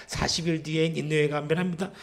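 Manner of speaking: perfunctory imitation of a prophet's warning; half-hearted proclamation. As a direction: recite it on one level, just going through the motions. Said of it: "이렇게 그냥 대충". (대충 외치는 흉내)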